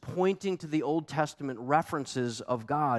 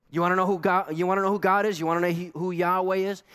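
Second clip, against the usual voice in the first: rising excitement; 6 semitones higher, 4 dB louder, faster than usual. Real, not acted. Building preaching climax.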